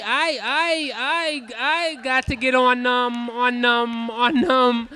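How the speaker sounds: slow, stuck, repeating words over and over; a kid who can't finish a sentence; stammering son. Retold or imitated. Son retelling recess to his dad, stammering and looping.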